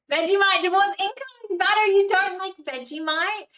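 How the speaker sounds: high, loud mock shock; mock outrage. Real, not acted. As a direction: pretend to be scandalised over Vegemite. Chatter dislikes Vegemite.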